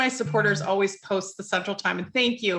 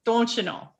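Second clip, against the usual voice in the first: put-on lightly done Minnesota accent; a playful touch of Wisconsin accent; Upper Midwest accent. Host teasing Midwest listeners, Upper Midwest accent. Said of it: "what kind of accent I'm doing".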